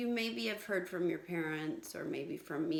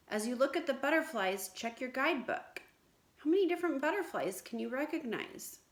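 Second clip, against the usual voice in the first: put-on lively storybook read-aloud to children; story reading; 3 dB louder than usual. Teacher reading a story to her class, lively read-aloud. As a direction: read it out brightly like a picture book.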